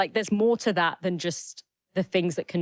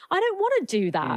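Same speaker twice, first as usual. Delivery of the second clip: mock whiny protest; 11 semitones higher than usual. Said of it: "And I'm like".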